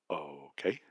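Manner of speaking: soft stunned okay, almost breath; stunned, barely there. Retold or imitated. Husband answering wife after miscarriage news, stunned soft okay. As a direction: let the word fall out in shock.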